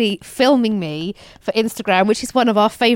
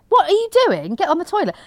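exasperated parent; 5 semitones higher than usual. Retold or imitated. Retold parent scolding child.

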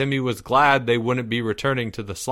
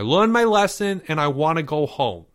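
whining; 5 semitones higher, 3 dB louder than usual. A narrator's reading. Boy pleading with Leo to go home, whining. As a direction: whine it like a boy who wants out. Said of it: "Porge whined".

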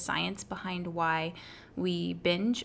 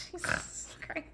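laughing; 5 dB louder than usual. Real, not acted. Laughing fit.

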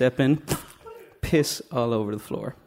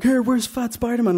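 put-on higher-pitched child's demand; jeering kid; 8 semitones higher than usual. Kids banging on the toilet door, high jeering voice. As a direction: call through the door like a kid.

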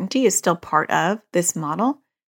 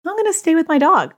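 higher, louder, firm defiance; defiant reply; 10 semitones higher, 4 dB louder than usual. Pretend. Pushing back against the OCD voice, high and loud. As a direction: answer the OCD voice with a firm refusal. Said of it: "defiant answer to OCD".

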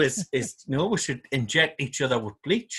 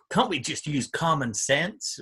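slow mocking quote; 5 dB quieter, slower than usual. Quoting Trump tweet mockingly.

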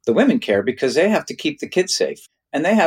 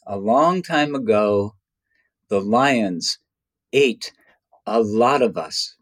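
slow, measured retelling with pauses between phrases; loving elder storyteller; slower than usual. Retold or imitated. Elder addressing children round the fire, slow and loving. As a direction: lightly voice a kindly elder, letting each phrase land. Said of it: "with this big, beaming, loving energy".

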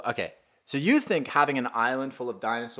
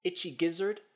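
mock T-Rex; 9 semitones higher than usual. T-Rex with tiny arms voiced.

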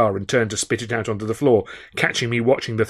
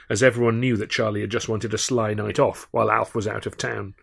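usual speaking voice

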